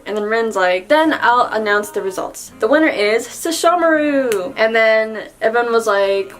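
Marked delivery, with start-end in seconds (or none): 0.9-4.5 playful winner announcement. Retold or imitated. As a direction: announce it brightly, drawing out the name. Rin announces the contest winner.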